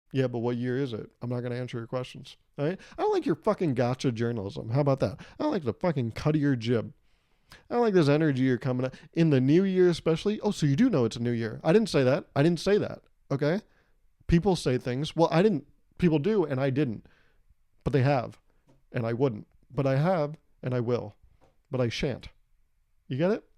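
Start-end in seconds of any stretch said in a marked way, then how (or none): 1.2-10.4 mock defensive rant. 10.4-23.4 mock evasive denial.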